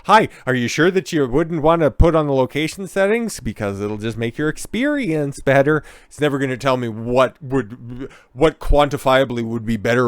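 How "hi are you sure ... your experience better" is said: mock-sweet pushy app prompt, raised and louder; pushy app voice pestering the user. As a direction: ham up a wheedling app asking again.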